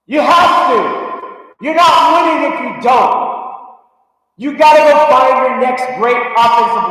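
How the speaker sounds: fan insisting at full voice; insistent shout. Real, not acted. Insisting on drafting linemen.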